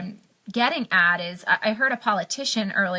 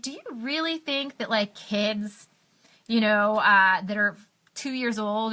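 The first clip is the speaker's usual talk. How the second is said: incredulous. Real, not acted. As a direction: question it in real disbelief, pitch lifted. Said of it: "I couldn't believe when he said that".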